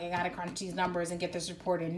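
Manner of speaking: quick mock-boring recital; bored office worker. Reader mimicking a number cruncher, lightly mock-bored. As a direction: rattle it off like a dull routine. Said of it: "Not, not this boring".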